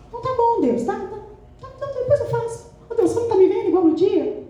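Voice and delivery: high, whiny brush-off to God; playfully put-upon stalling; grudging mock agreement. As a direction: give in with a high, impatient whine. Acting her grudging answer to God.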